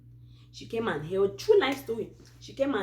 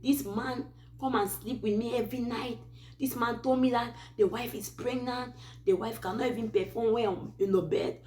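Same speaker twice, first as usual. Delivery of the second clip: mock yell pitched higher; hammed-up accusation, pitched up; retold shouting; 4 semitones higher than usual. Girlfriend confronting the man before his wife, mock shout. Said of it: "the lady shouting and said".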